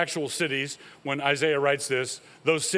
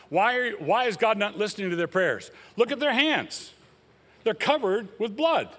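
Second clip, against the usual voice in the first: rising indignant preaching; 5 semitones higher than usual. Real, not acted.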